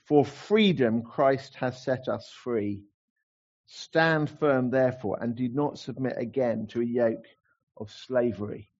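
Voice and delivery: slow, proclaimed like a slogan; slogan verse. Shown as a demonstration. Preacher proclaiming the theme verse as a slogan, slow. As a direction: declare it slowly like a rallying cry. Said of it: "great slogan verse".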